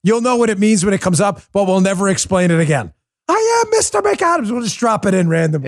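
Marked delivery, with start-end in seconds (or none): 3.3-4.5 high-pitched hammed-up yell; indignant cry, played as a catchphrase; mock outraged shout. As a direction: imitate an exasperated guest insisting on his name. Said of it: "it gets really pissed off".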